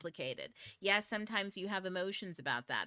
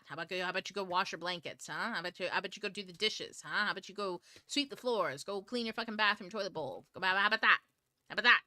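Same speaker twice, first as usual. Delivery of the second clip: mock nagging mother, getting louder; fed-up mom listing chores, louder and louder; 3 dB louder, faster than usual. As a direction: scold like a fed-up mom, building to a yell. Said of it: "now I'm acting like a mom".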